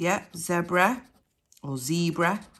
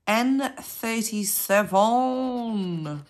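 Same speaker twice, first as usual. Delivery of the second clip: bingo caller; 2 semitones higher, much slower than usual. Acted. Drawn-out bingo number call.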